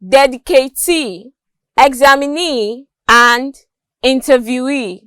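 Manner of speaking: "dedicatee, examinee, interviewee", each stressed on the final EE; final-syllable stress. Shown as a demonstration. Teacher listing examples, "dedicatee, examinee, interviewee" stressed on fourth syllables. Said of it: "words stressed on the fourth syllable".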